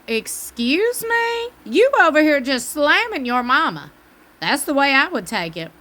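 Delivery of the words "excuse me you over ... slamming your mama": indignant comeback. Retold or imitated. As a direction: act offended, talking back at the screen. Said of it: "I'm over here like".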